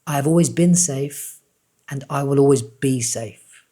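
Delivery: unhurried, tender reassurance; said with love. Shown as a demonstration. Coach finishing the affirmation for viewers, tender and slow. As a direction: speak it like a gentle promise. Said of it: "Say it with love".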